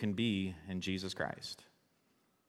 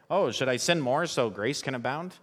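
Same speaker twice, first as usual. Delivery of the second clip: sarcastic; 5 semitones higher, 4 dB louder than usual. Retold or imitated. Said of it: "He says that sarcastically".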